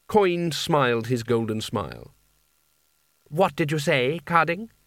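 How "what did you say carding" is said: put-on questioning young lord. A narrator's reading. Boy lord questions a wizard.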